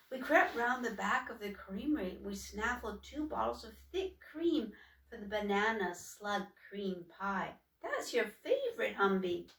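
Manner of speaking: a touch of breathless eagerness; eager sister. Acted. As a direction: share the stolen treat with pride. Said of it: "Troika was out of breath with enthusiasm".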